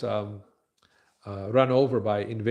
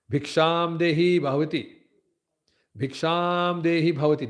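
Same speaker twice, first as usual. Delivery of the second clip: put-on begging boy's call; 4 semitones higher than usual. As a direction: call out for alms with long, held syllables. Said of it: "when a boy goes to beg".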